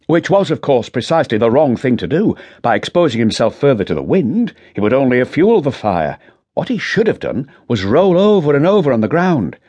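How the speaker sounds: younger detective, steady and measured; Rutter's voice. Acted. Sergeant explaining the scene to his boss, measured.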